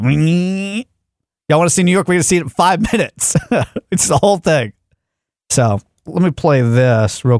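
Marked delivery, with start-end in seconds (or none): 0.0-3.3 hammy boat driver boasting; boat captain voice. Retold or imitated. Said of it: "That guy took off like".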